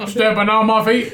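mimicking it through laughter; laughing echo. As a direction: parrot the complaint while cracking up. Mockingly echoes friend's complaint.

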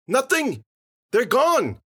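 high, loud yell; full-voiced, high holler; triumphant shout. A narrator's reading. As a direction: call it out to the whole street. Character shouting across empty street.

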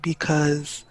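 lightly voiced smooth waiter; wannabe of a singer. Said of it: "singer wannabe waiter".

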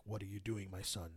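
soft low solemn divine voice; a hushed, holy Jesus. Retold or imitated. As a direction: speak gently like the Lord. Jesus speaking in dream.

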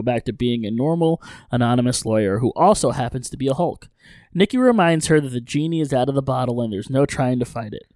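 brisk, animated story-recap read; recap narration. A narrator's reading. Host recapping an episode for listeners, recap narration.

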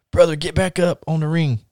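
hint of a Russian wrestler; Ivan Koloff. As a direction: order him in a mild mock Russian accent. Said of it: "staying in his Russian gimmick voice".

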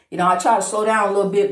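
rushing the words out, fast; words tumbling out quickly; excited fast talk. Real, not acted. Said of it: "you talk even faster".

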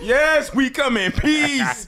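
high, slow alien voice. Pretend. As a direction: ham up a peaceful alien. Acting alien arrival.

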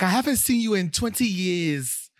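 high, exasperated woman from a show. Retold or imitated. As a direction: play the upset ex-wife. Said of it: "She's like".

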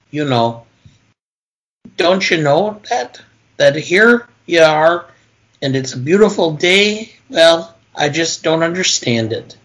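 lightly Minnesotan Marge reading; quoting Marge in a mild Minnesota lilt; Marge quote. Acted. Movie fan quotes Marge's closing speech, lightly Minnesotan. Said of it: "I have another one I'll quick throw up".

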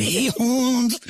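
put-on Japanese-accented cholo. Amused friend imitating cholos from a show, Japanese-accented cholo. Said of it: "fucking Japanese accent".

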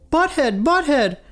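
high, shrieking fan calls; yelling. Retold or imitated. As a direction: scream for his attention.

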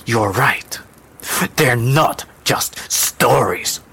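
slow, measured low tone. Acted. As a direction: agree slowly, with weight. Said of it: "the woman said in a low tone".

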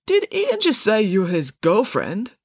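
high, slow, careful question; awkward question. Acted. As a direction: probe awkwardly, drawing it out. Parker awkwardly asks about girlfriend remark.

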